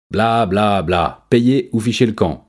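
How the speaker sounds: high, loud mocking chimp; shouting chimp. A narrator's reading. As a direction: yell it dismissively, high. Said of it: "cria Mathias".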